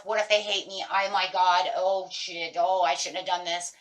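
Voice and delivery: loud, acted spiral of worry; anxious self-talk. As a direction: play anxiety going through the roof. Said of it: "my anxiety is through the roof".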